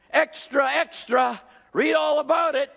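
newsboy shouting the headline; paper boy cry. Pretend. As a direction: hawk it on the street corner.

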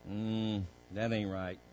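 very low, hushed self-talk; low, soft hesitation before deciding; second thoughts. Acted. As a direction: murmur your doubt privately to yourself.

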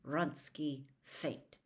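slow, through gritted teeth. A narrator's reading. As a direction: correct her through clenched jaw. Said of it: "through gritted teeth".

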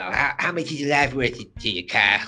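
lightly voiced scheming cartoon kid; a hint of a sly boy haggling; Cartman. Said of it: "Cartman says".

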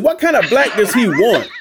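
high, loud comic exasperation; mock outrage. Narrator teasing clients about the kind of Black wanted, mock outrage. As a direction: demand it in hammed-up indignation.

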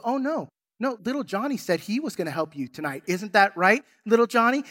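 a lightly voiced bratty sister, sing-song and sneaky; sly little sister. Sister dodging dishes by volunteering her brother, mock sweet. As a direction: tease him sweetly, holding the secret over him. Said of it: "And she goes".

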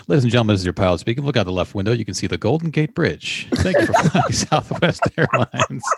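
fast, clipped airline pilot intercom read; mock cockpit announcement to passengers. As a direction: rattle it off like a captain on the PA. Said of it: "Let me do some official business".

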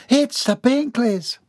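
high, drawn-out delighted announcement; enthusiastic realization. A narrator's reading. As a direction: announce the guests with sudden glee. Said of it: "announced with enthusiastic realization".

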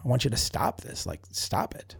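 a quiet retold stop it, almost voiceless at the end; muttered demand. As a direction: trail off into a hushed, fed-up stop it. Retelling his angry demand.

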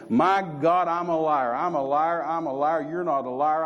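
mild mock yell of repentance; retold yell. Alone in the car crying out to God, mild mock yell. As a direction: cry it out, half-hearted. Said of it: "I just yelled in the car".

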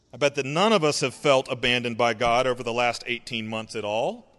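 deadpan sarcastic claim; dry mock denial; dripping sarcasm. Shown as a demonstration. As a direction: say it flat so they hear the irony. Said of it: "Please hear that dripping with sarcasm".

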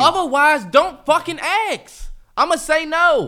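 loud, slow, annoyed comeback; heated retort. Real, not acted. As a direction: snap back with real irritation. Heated reply in argument.

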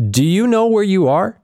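lifted voice of a bewildered traveler; David's voice. Acted. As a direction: ask it wide-eyed and unsure. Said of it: "David asks him, quote".

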